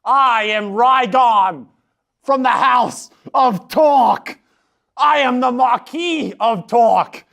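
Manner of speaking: slow grand introduction. Acted. Player introducing his noble character.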